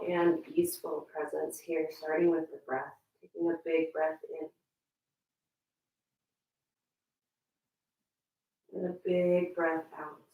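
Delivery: calm breathing guidance with long pauses; guided meditation. Real, not acted. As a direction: guide them gently through each breath, leaving space. Leads breathing and relaxation.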